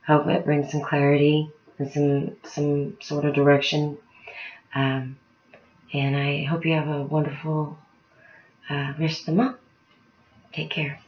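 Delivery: sleepy voice, fading out; drowsy, eyes closing as she speaks; nodding off. Real, not acted. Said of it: "I'm getting really tired".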